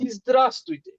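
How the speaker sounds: ইজদ্রাস্তুইতে said slowly in Russian, ending in a clear তুইতে; teacher models the full Russian greeting; Russian pronunciation. Shown as a demonstration. Russian teacher pronouncing the formal hello clearly. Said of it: "এটার উচ্চারণ যেমন এটা হবে".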